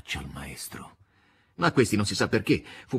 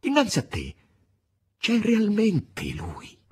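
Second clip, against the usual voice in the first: higher, pleading, slowing to the end; frightened; 9 semitones higher, slower than usual. A narrator's reading. Margherita shaking the master, high frightened pleading. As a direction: urge him back to his senses. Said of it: "disse Margherita spaventata".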